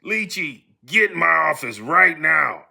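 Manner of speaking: ordinary talk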